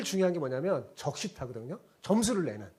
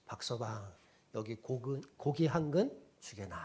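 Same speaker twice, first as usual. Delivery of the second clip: soft, courteous nobleman asking gently; polite request; 4 semitones lower, 4 dB quieter than usual. Retold or imitated. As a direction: ask politely like a respectful gentleman. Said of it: "그래서 이렇게 점잖게 부탁한 겁니다". (점잖게 부탁하는 양반)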